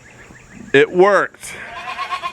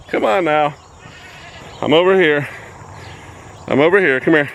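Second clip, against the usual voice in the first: calling from far away; 3 semitones higher than usual. Real, not acted. Calling the pigs over.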